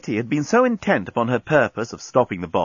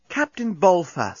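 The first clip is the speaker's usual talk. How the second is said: high, slow, coaxing address; most charming; 8 semitones higher, slower than usual. A narrator's reading. Nettie winning over the captain, charming. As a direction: sweet-talk the captain. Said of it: "in her most charming voice".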